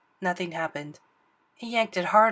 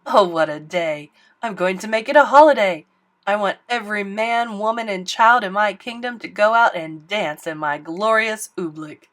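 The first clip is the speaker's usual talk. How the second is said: loud, grand royal decree; king ordering a holiday; gleeful king; 7 dB louder than usual. Acted. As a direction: proclaim it with pompous joy.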